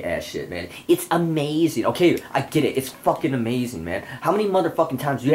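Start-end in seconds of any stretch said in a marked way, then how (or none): 0.9-1.8 mocking actor. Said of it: "every fucking Hollywood actress or actor says that".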